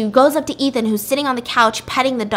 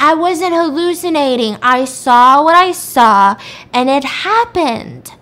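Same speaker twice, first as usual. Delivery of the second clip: loud, high, drawn-out indignation; insistent protest; 4 semitones higher, 7 dB louder, slower than usual. Retold or imitated. Woman insisting to police it was real, loud indignant protest. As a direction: protest loudly, stretching the key words.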